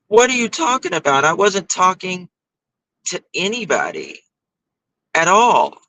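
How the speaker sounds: high, baffled protest; incredulous denial. Retold or imitated. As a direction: act shocked and defensive. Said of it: "And I'm like".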